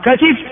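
كتف as katif; original form. Shown as a demonstration. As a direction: say كتف with a, then i. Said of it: "هذا هو الأصل". (كتف بفتح الكاف وكسر التاء)

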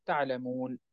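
تعلمون ending stopped on a silent نون; pausal form. Shown as a demonstration. Teacher demonstrating the stop on تعلمون. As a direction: stop on تعلمون with no final vowel. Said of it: "إن أردنا أن نقف عليه نقول".

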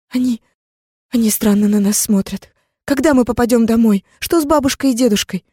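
little sister asking Zara, high and anxious; scared little girl. Acted. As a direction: fret like a frightened child. Frightened girl asks questions.

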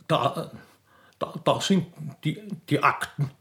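flustered minister stuttering ma, ma; stammering. Acted. Court minister stammering before the crowd, flustered. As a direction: trip over every syllable in a panic.

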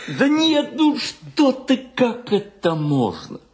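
high, flustered objection; alarmed protest. Acted. Afraid the landlady will overhear, flustered protest. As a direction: jump in anxiously, pitch shooting up.

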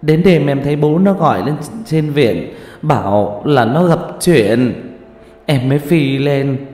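a mother sobbing out how her daughter died; tearful grieving mother. Acted. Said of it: "Mẹ nó khóc lóc mếu máo".

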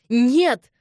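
loud, high cry of no; terrible scream. A narrator's reading. Elizabeth clinging to Robert, screaming no. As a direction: scream to stop them. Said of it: "страшно закричала".

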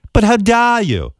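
hammed-up indignant grilling, slowing on how dare you; mock furious interviewer. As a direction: play the outraged TV host tearing into a guest.

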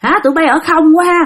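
a touch of adult reprimand; scolding. Retold or imitated. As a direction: scold the kids like a stern patrolman. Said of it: "mấy ổng la quá trời".

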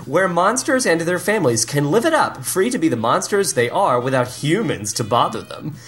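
dramatic movie trailer narration. Pretend. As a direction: read it like a trailer voiceover. Reads trailer synopsis.

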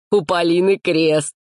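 slow, drawn-out public announcement; loud announcement. A narrator's reading. Busybody lad announces the girl's lot, proclaiming. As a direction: announce it slowly to everyone. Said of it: "громко объявил вездесущий Славик".

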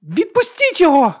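high piercing scream; shriek. A narrator's reading. Princess shrieking at the sorcerer, high piercing scream. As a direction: shriek it at the top of the voice. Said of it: "він почув її вереск".

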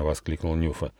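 usual speaking voice

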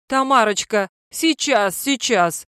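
husband hollering to his wife. Acted. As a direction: bawl it out in a panic. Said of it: "заблажил мужик".

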